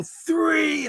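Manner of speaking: high yelled "three" like a wrestler on the mat; yelled count. Retold or imitated. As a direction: shout "three" up into his face. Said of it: "and I go".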